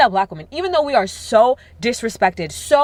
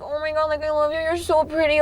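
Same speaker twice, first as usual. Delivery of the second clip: put-on higher, softer gushing girl voice; gushing girl in a bar bathroom; 6 semitones higher, 4 dB quieter than usual. Woman gushing over a stranger in the club bathroom, higher and soft. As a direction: coo it like meeting a new best friend. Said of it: "you guys are like".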